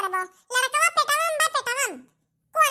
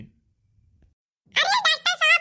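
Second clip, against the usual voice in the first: drawn-out plea; 3 semitones higher, much slower than usual. Acted. Begging against the injection.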